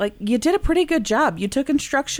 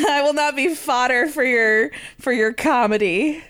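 laughing. Real, not acted. Refusing through laughter.

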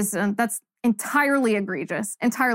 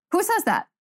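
higher disbelieving "Who says that?"; incredulous again; 8 semitones higher than usual. Real, not acted. Host repeats the question to viewers, incredulous. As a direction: push the disbelief further. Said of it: "host reacting to viewer pet peeve".

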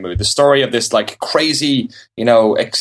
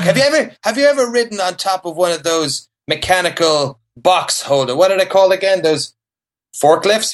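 put-on old grandpa; 7 semitones higher than usual. Continues the grandpa bit.

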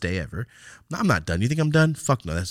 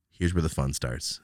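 P=A; slow ominous tease; 5 semitones lower, 4 dB quieter, slower than usual. Acted. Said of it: "This is where the fun starts".

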